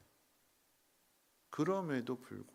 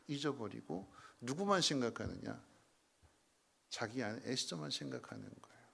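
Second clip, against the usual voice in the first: ordinary talk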